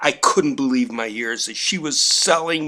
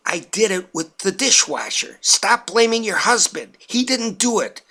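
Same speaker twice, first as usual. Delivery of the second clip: mild mock yell; 6 semitones higher than usual. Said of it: "my mother-in-law Carol yelled".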